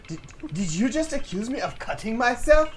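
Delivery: put-on girl character voice.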